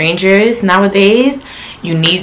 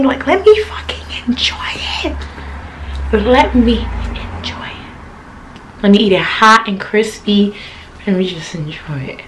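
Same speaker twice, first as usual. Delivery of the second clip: hushed longing; 5 dB quieter than usual. Real, not acted. Pleading to enjoy food.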